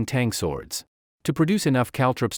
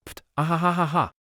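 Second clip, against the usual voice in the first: booming laugh; 6 semitones higher, faster than usual. Acted. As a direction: roar with laughter. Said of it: "laughed like thunder".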